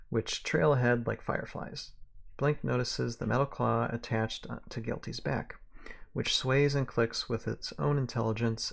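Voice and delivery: measured western-tale narrator; story narration. A narrator's reading. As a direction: read it aloud like a western novel.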